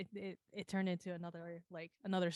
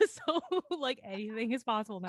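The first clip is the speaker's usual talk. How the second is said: too much caffeine; 3 semitones higher, 5 dB louder than usual. Real, not acted. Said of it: "Everyone, this is me on coffee".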